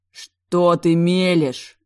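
loud, slow furious outburst; slow, loud, enraged question; exploding. A narrator's reading. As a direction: blow up at her, dragging each word. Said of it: "взорвался Блэк".

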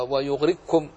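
ويغرقكم as wayughrikkum; ق of ويغرقكم turned into a doubled ك; major assimilation. Shown as a demonstration. Teacher adding Abu Amr's example, ويغرقكم with doubled ك. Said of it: "بالإدغام الكبير".

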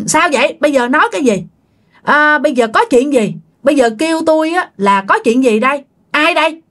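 mildly heated demand for answers; acted impatient questioning. Dad demanding to know what's going on, mildly heated. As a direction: question with a touch of temper. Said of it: "ba của bạn mới nóng".

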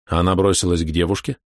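ordinary delivery

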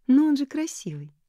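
высоко и громко настаивая; упрямо, с напором, голосом Элис; настойчиво. A narrator's reading. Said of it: "настаивала она". (Элис настойчиво спорит с Нори)

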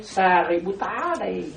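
Sariputta said slowly in Pali; Pali pronunciation. Shown as a demonstration. Monk showing followers the Pali name, slow. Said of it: "nói tiếng Bali".

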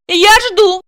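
high loud bark. Acted. Ася рявкает на мужа, громко. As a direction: snap the demand. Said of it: "рявкнула Ася".

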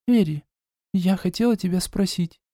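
a hint of a curious younger girl; gently voiced sister Eda asking; sister's voice. A narrator's reading.

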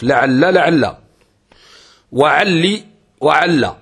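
لعل لعل وعلي وعل spoken slowly, one variant after another; slow listing of variants. Shown as a demonstration. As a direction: lay out each variant slowly. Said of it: "إثبات والحذف". (تعداد بطيء لصيغ لعل وعل)

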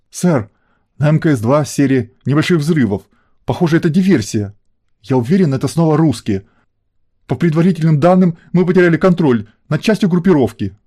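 high, rising panicked gabble, breaking upward; panicky high squeal. A narrator's reading. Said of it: "быстро протараторил директор наса, при этом периодически срываясь на высокочастотный визг".

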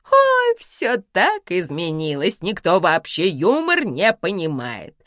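slow, drawn-out outraged sigh; a misunderstood star complaining; mother complaining to her daughter on the phone; indignant exclamation. Acted. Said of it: "воскликнула возмущённо она".

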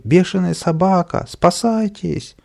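high-pitched alarm; crowd shouting. A narrator's reading. Crowd fleeing a mad dog, shouting. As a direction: cry out as a panicked crowd. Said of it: "закричали в толпе".

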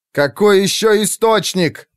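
loud, high urgent yell; shouting in his face. A narrator's reading. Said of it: "проорал ему в лицо Уилл".

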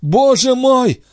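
a slow, high cry of dismay; anguished cry. A narrator's reading. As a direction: let it break out of her in anguish. Andrée in shock.

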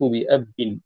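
بأب said bi-ab-bin; doubled ba. Shown as a demonstration. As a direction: geminate the final b in بأب, ending -in. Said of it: "وبتشديد الباء".

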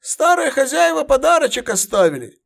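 high strained veteran voice with a smirk; smirking centurion. Acted. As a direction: grin through the words, old soldier. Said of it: "усмехнулся Центурион".

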